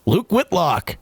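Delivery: slow, drawn-out announcer call. Retold or imitated. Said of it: "The announcer goes".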